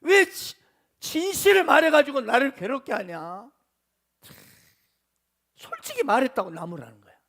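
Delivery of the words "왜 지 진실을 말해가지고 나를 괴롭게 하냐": mildly acted parental rebuke; a touch of resentful scolding; retold reproach. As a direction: demand an answer from your sons, lightly acted. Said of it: "아들들 향해서 원망하고 막 따지고 책망하는".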